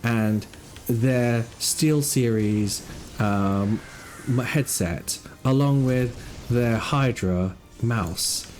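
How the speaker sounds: slow, hushed wildlife narrator; nature documentary. Acted.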